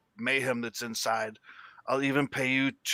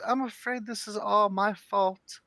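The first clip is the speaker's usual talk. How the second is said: higher, slow timid gnome voice; small guilty voice, dragging each word; little gnome woman; 8 semitones higher than usual. Acted. Gnome owns up to the adventurers, higher timid voice. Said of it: "and she goes".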